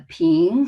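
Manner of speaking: PING with a rising second tone. Shown as a demonstration. Teacher explaining the second tone, rising PING. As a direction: slide PING upward. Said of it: "second tone is a rising tone".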